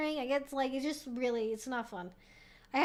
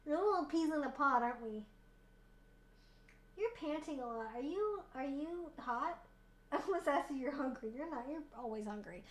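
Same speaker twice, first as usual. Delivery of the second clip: soft, quieter cooing to the dog; tender pet talk; 8 dB quieter than usual. Real, not acted. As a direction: talk gently to your panting dog. Talking softly to her dog.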